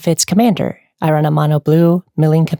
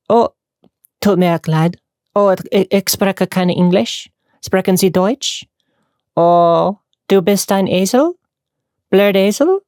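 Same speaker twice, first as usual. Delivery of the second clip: feigning no English, playful German; lightly acted foreigner; mock confused German; 2 semitones higher, slower than usual. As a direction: play dumb in German while insulting. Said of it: "I just start speaking German".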